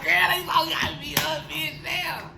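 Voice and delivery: overjoyed mock gush to the girls; giddy gushing. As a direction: squeal it to a friend who's hyping you. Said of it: "I be like".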